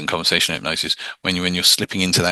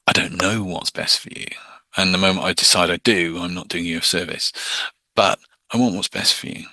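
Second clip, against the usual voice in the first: calm caring. Shown as a demonstration. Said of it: "You want to be calm, caring".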